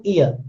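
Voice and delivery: "ear" said as "ee-uh"; silent R in ear. Shown as a demonstration. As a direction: demonstrate "ear" without its final R. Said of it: "same pronunciation".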